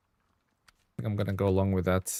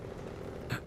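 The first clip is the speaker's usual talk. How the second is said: short quiet gasp; 16 dB quieter than usual. Real, not acted. Spots something in the game.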